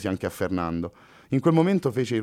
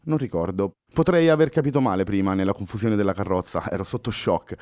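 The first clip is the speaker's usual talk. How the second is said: perplexed; 3 semitones higher than usual. Acted. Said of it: "disse perplessa la ragazza".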